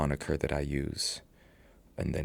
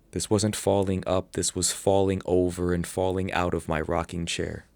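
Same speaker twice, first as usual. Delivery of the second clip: poem quote; 2 semitones higher, 4 dB louder than usual. Acted. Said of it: "So the first line says".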